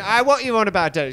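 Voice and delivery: put-on high, whining teenage retort; mock whiny son. Son mocking his dad's complaint, high and whiny. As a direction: sneer it back like a sulky son. Squabbling sons, one mocks father.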